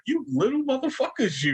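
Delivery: mock angry outburst.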